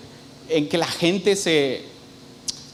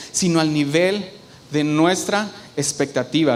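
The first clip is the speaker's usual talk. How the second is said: measured reading. Shown as a demonstration. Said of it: "quiero leerte algo que dice".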